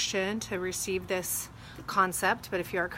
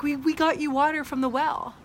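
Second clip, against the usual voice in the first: higher, louder, eager and proud; excited announcement; 7 semitones higher, 3 dB louder than usual. Retold or imitated. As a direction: burst out with the good news. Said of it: "They're like".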